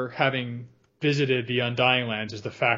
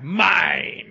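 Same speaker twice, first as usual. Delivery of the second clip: Gollum voice; 3 semitones higher, 3 dB louder than usual. Retold or imitated. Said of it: "he full on Gollum's out".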